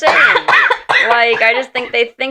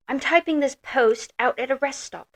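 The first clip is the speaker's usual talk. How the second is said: put-on old British wife; 3 semitones higher, 4 dB quieter than usual. Shown as a demonstration. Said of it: "you sounded like an old British wife".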